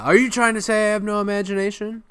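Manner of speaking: high, quick, indignant retort; imitated affronted squawk of a question; mock offense. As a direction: bristle as an insulted artist. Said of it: "he kinda takes offense to it".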